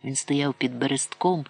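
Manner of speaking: ordinary delivery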